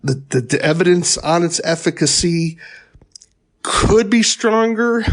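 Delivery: real hesitation, carefully hedging; tentative. Real, not acted. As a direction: stumble into it, then draw out the doubt. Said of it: "hearing how tentative I am".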